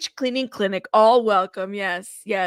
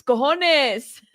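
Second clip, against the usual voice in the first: exclaimed; 2 semitones higher than usual. Acted. Repeats word as exclamation.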